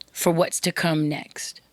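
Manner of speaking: slow whisper. Real, not acted. Host teasing what comes next for women listeners, slow whisper. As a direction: trail off into a hushed tease. Host builds anticipation for content.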